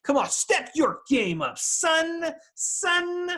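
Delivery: lightly voiced coach egging a friend on; mock coach. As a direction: goad him like a cheesy coach. Mock pep talk to friend.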